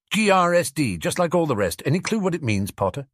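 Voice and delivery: curious prefect voice. Acted. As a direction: sound like a puzzled prefect. Prefect questions Harry.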